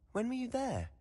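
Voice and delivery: sharp high-pitched question of surprise; surprised question. Acted. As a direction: caught off guard, voice jumps up. Surprised at Gringotts visit.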